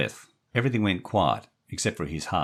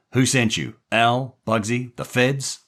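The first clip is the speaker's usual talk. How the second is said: loud, rapid interrogation; angry gangster; 8 semitones higher, 6 dB louder than usual. Acted. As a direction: grill the kid threateningly.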